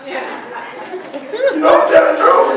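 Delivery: slow, high, stretched insistence; preacher's drawn-out cry; drawn-out exclamation. Real, not acted. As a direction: stretch every word out high.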